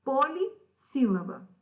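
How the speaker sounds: polissílaba slowly broken after POLI; syllable-by-syllable emphasis. Shown as a demonstration. Teacher classifying a four-syllable word for pupils, slow emphatic split. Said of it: "ela fica dividida em quatro sílabas".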